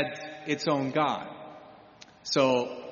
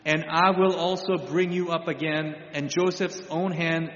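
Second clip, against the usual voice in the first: a lightly raised, solemn voice of God. Acted. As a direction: proclaim it as God speaking to Jacob. God speaking to Jacob, scripture.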